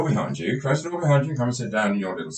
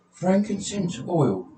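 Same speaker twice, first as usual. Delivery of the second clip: much higher, slow puzzled patient; 9 semitones higher, slower than usual. Acted. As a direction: question it slowly as the baffled patient.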